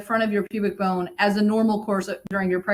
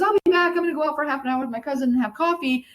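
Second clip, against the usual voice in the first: breezy husband; 5 semitones higher, faster than usual. Retold or imitated. Voicing husband heading out.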